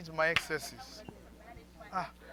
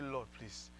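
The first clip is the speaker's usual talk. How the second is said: prayer; 4 semitones lower, 10 dB quieter than usual. Shown as a demonstration.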